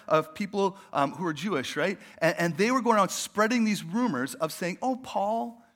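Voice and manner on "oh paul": patronising, head-patting tone; a hint of smug condescension; condescending. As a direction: talk down as if to a child. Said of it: "kind of patting their heads".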